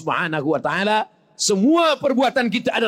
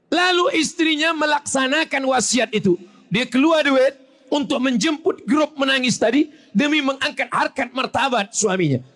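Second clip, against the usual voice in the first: fiery preaching; 7 semitones higher than usual. Acted. Preacher telling of the wife hiring mourners, fiery. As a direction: build it up forcefully. Preacher rising to full force.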